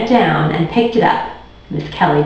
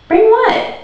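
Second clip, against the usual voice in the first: feigned innocence. Acted. Sharon feigning ignorance.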